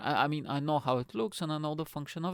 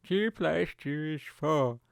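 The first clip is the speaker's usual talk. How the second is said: slow, mock robotic assistant answer; Alexa; 2 semitones higher, 3 dB louder, much slower than usual. Smart speaker answering simple sum, robotic impression. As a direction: imitate a machine stating a fact, slowly. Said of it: "He's like".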